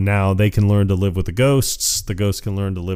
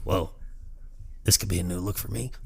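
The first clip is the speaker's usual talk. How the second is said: shrunken head voice; 12 dB quieter than usual. Retold or imitated. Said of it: "He's like".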